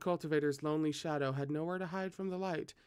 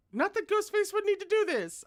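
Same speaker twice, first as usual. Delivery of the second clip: sarcastic aside; 6 dB louder than usual. Acted. Aside in high voice.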